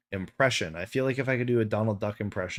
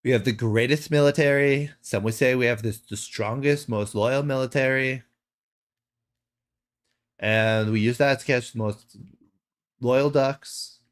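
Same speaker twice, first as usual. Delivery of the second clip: Trump impression. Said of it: "I can't do Donald Trump impression".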